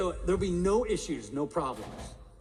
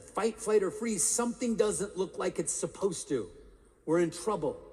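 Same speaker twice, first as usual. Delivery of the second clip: acted brain alarm, raised pitch; mock alarm; 4 semitones higher than usual. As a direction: sound a mildly urgent warning, pitched up. Voices the amygdala raising alarm.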